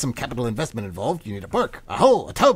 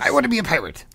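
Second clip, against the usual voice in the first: high, loud eager announcement; eager declaration; 8 semitones higher, 4 dB louder than usual. Acted. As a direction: blurt out the dream proudly. Student declares dream to counselor.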